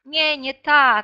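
podpowiadanie koledze. Acted. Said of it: "podpowiadamy koledze". (lekko odegrane podpowiadanie koledze z drużyny)

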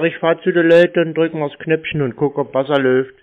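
clearer repeat. Real, not acted. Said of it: "Wie bitte?".

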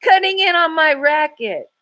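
hysterical ranting. A narrator's reading. Thug raging at the girls, hysterical rising rant. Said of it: "he howled hysterically".

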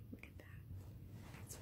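hushed, slow whisper in awe. Real, not acted. Whispering slowly at the new filter in awe. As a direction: breathe it out slowly in wonder.

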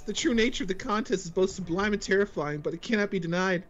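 high, grand speech; voice acting. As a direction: address the council with gravity. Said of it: "Amazing voice acting".

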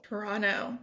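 "Toronto" as tuh-RON-oh; silent-T Toronto. Shown as a demonstration. Co-host echoing the host's lesson, "Toronto" without its second T. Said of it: "no T".

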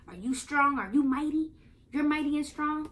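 hyping up the little viewers; excited question to kids. Acted. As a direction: pump the kids up. Asks the children watching.

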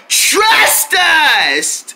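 high, hollered assurance; insistent shout. Acted. Friends insist they can handle it, high shout. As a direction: holler it to end the doubt.

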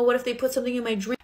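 imitated freak-out, high and fast; mock crying. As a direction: blurt it out as if crying to mom. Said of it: "And then I start crying".

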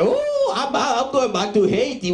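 high squeaky yelp of mock panic, then a rush. A comic telling the crowd about a scared immigrant, mock panic. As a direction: pretend to panic when immigration is called.

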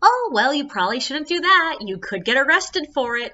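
mock-serious, high and bright at first; playfully stern caution; mock serious warning. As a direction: warn them gravely but with a smile. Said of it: "I treat them as if they're serious, but with a smile".

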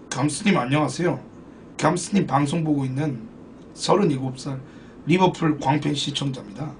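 viewer's threatening letter read quietly; message read aloud. Acted. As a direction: read the viewer's note in a hushed, solemn voice.

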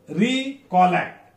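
recollect slow, RE held apart from the rest; teacher's slow demo of recollect; syllable demo. Shown as a demonstration. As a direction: draw out the start of recollect. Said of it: "If re sound".

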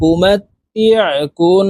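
slow, the n of কুন held as a nasal hum; nasal ghunna. Shown as a demonstration. Teacher showing the rule just stated, nasal ghunna. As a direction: recite উমাতিয়া কুন, lingering through the nose on n. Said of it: "নাকের বাসি থেকে গুন্নাহ করে পড়ব".

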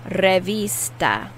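"Revista" with a long, stressed I. Shown as a demonstration. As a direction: lean slowly on the I in "Revista". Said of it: "Notice I'm putting more emphasis on the I".

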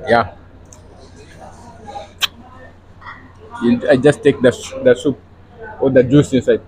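lips on lemon wedge; talking between sucks of lemon; sucking a lemon slice. Real, not acted. Seen 1: Speaker repeatedly holds lemon slice to lips while talking.

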